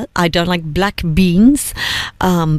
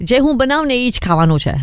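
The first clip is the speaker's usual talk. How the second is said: quick, higher annoyed retort, imitating mum; 5 semitones higher, faster than usual. Mum to kids asking about dinner at breakfast, mock annoyed. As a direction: imitate an annoyed mother snapping back fast. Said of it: "she'd really get annoyed with us".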